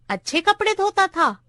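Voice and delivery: put-on high-pitched old clerk's question; sidetracked old clerk. A narrator's reading. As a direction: ask in a high, curious old man's pitch. (बूढ़े clerk का ऊँचे सुर में सवाल)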